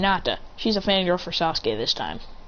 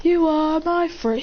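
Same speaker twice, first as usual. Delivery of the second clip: slow dramatic cry; 8 semitones higher, slower than usual. Acted. Jumping off the roof, drawn out.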